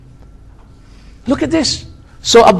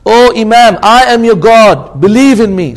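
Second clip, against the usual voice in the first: slow, loud, lightly voiced tempter; commanding Shaitan; 5 dB louder than usual. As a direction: imitate a devil demanding belief, emphatically. Shaitan commands the dying Imam.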